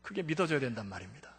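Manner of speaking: ordinary talk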